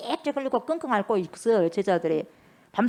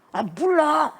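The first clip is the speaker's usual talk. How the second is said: irritated, higher-pitched disowning; vehement denial; 6 semitones higher, 3 dB louder, much slower than usual. Acted. Peter denying he knows Jesus, vehement denial. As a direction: brush it off with an exasperated outburst. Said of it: "저주하고 맹세하면서".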